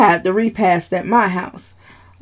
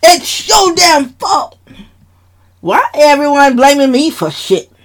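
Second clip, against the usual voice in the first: furious shout, much higher and louder; 9 semitones higher, 4 dB louder than usual. Acted. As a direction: roar it at her, blaming and enraged. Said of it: "Dad was so furious at Eva still".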